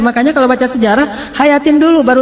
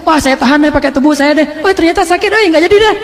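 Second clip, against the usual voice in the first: playful mock bravado; 4 semitones higher than usual. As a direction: pitch rising higher into a comic back-out. Imagined self giving up mid-sacrifice. (pura-pura berani lalu mundur, nada makin tinggi)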